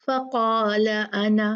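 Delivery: अना with the alif stretched at a pause; slow recitation, pausing on ana; stop on ana. Shown as a demonstration. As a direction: stretch the final alif when stopping. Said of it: "रुकना नहीं अना पे".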